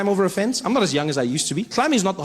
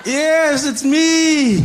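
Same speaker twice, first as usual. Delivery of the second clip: pained reply; 8 semitones higher, 6 dB louder, much slower than usual. Retold or imitated. Hurt man answers guard.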